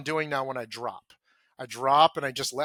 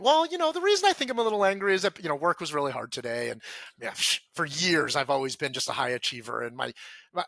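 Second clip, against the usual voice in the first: analyze the anger from the neck up, rushing; intellectualizing, talking about feelings; faster than usual. Shown as a demonstration. Man reasoning away his anger to the listener: quick, heady. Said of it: "talking about my feelings".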